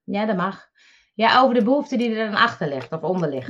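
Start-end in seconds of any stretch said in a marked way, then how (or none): 1.1-3.5 talking between sips of water; words right after a swallow of water; while sipping a drink. Real, not acted. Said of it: "Ik moet even een slokje water nemen". (praten na een slokje water)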